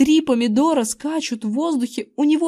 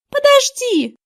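put-on much higher girl's urgent cry; girl stopping him; 5 dB louder, slower than usual. A narrator's reading. Girl holding the boy back from the mirror, urgent high cry. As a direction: stop him with a sharp plea. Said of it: "удержала меня Эрин".

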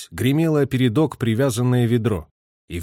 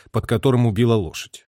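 usual speaking voice

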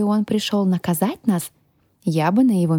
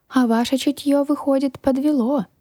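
smirking; 8 semitones higher than usual. A narrator's reading. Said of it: "усмехнулась я".

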